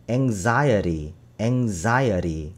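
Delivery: anxiety said slowly with a flapped t; slow model pronunciation. Shown as a demonstration. Teacher models American anxiety with flap, slow. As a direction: model anxiety with a soft tapped middle. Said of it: "강세가 앞에 있기 때문에".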